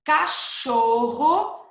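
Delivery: cachorro drawn out very slowly and loud; slow dictation. Shown as a demonstration. Teacher dictating cachorro word by word for pupils, very slow. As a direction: stretch out cachorro as you write it. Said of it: "escreve a palavrinha".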